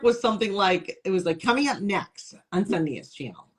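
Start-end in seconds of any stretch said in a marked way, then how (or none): 1.4-3.5 put-on Syracuse accent. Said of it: "where are you from?".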